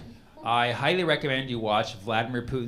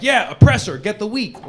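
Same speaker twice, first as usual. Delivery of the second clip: mock oppressor fan; 6 semitones higher, 6 dB louder than usual. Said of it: "if your position is like".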